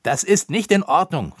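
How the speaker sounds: high, loud objection; indignant cry. A narrator's reading. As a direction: call out in protest. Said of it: "rief er".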